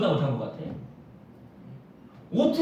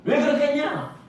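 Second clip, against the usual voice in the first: God questioning back; 4 semitones higher than usual. Acted. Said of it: "하나님도 그걸 되물어보는 거예요".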